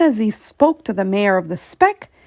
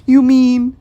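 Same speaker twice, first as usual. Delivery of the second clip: gasping surprise; 2 semitones higher, 8 dB louder than usual. A narrator's reading. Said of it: "Horton gasped".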